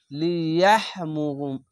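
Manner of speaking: লিয়াহমু- chanted slowly, cut off mid-word; slow recitation that breaks off; Quranic recitation. Shown as a demonstration. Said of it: "sorry". (ধীরে তিলাওয়াত)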